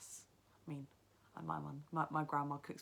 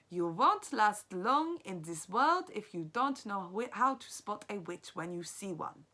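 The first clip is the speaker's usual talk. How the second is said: louder, slow grandmother warning; 4 semitones higher, 9 dB louder, slower than usual. Acted. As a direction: warn the boy like a wise grandma. Grandmother warns.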